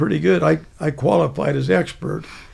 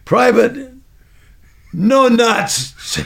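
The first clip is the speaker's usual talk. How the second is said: loud, higher mock roll call; sergeant's mocking name; 6 semitones higher, 4 dB louder, much slower than usual. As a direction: bark the insulting nickname.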